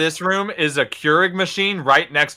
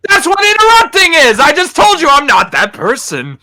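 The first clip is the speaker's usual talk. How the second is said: loud sharp voice; 7 semitones higher, 7 dB louder than usual. Real, not acted. Heated protest at friends.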